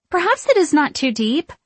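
high, hesitant witch voice; timid suggestion. A narrator's reading. Sarah at the black river, high and tentative. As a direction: offer it in a high little voice. Witch facing a strange road.

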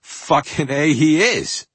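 proud admission. Retold or imitated. Singer finally admitting a famous singer is his hero, high and gleeful. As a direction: own it proudly at last. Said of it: "came out of the closet and went".

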